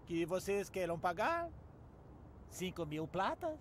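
low menacing offer. Acted. Ninja demands bribe quietly.

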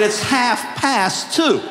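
half past two, said very slowly and word by word; slow, deliberate. Shown as a demonstration. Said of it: "I said".

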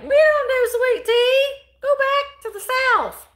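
put-on loud, high-pitched would-be Chicago accent; mock Chicago accent. Chicagoans refusing her sweet tea, mock Chicago accent. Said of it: "that's not a Chicago accent".

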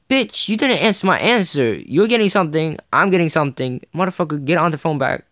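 hammed-up furious comeback; mock angry retort. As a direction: snap back at the rude seller as if you had. Imagined angry retort to seller.

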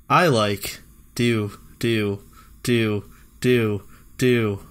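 very slow flat read; monotone reading. Shown as a demonstration. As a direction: drag it out flatly. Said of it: "my monotone, uh, voice".

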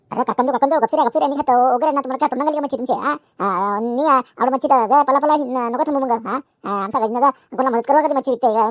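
high-pitched, heated telling-off; indignant scolding. Acted. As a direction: pitch up, jump in to defend a friend. Friend scolds elders, defends Gajni. (चढ्या आवाजात रागावून झापणे)

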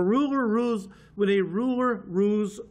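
stumbling over the words; tripping on ruler rules; tongue tied. Real, not acted. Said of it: "let me try that again slowly".

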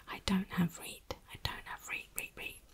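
Yorkshire "reet" whispered, the vowel a long ee. Shown as a demonstration. Yorkshire reet, whispered to viewers. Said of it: "So reet means right".

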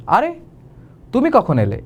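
light, pleased surprise at the visitor; pleasantly surprised. Shown as a demonstration. Teacher corrects the greeting to pleased surprise. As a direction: greet them with glad surprise. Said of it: "এবার ঠিক আছে".

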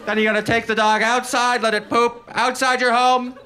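sneering parody of a cat owner; smug cat owner. Retold or imitated. Mocking cat owner persona.

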